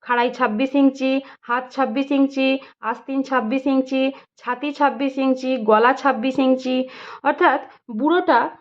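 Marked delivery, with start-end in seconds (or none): 0.0-6.9 understated call in an even, repeated tune; monotone measuring call, not shouted; calling out measurements. A narrator's reading. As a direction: chant each measurement alike, like a tailor's tally. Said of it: "হাঁকতে লাগলো".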